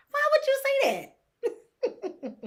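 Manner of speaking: cracking up at how absurd it is; laughing disbelief. Real, not acted. Amused disbelief at the mom's comeback, laughing it out. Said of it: "I was confused".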